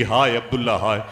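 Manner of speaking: acted-out grieving reproach; retold anguished cry. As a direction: cry out to the lost husband, in a preacher's retelling. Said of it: "चीखती रही, तड़पती रही".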